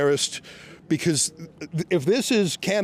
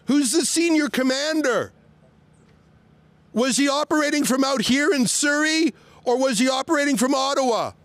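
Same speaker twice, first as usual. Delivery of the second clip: higher raised voice, questions called out; outdoors voice; 5 semitones higher than usual. Real, not acted. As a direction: call the questions across to the car. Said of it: "I'm using my outdoors voice so they can hear me".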